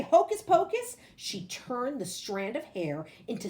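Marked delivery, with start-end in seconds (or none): 0.0-1.0 higher, louder magic words; spell incantation. Acted. Boy imagining a spell being cast, loud and high.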